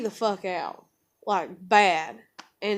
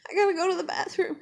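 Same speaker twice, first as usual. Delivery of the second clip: put-on quick, high child voice, lightly hollered; mild high-pitched mock holler; imitated toddler hollering; 10 semitones higher, faster than usual. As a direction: mimic a little kid in a hurry. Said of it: "like, hollering".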